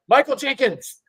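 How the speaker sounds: high, loud mock scream of a name; retold scream. Host reliving naming a random Viking, mock shouted. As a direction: blurt the name out like a game-show answer. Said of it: "I just screamed Michael Jenkins so loud".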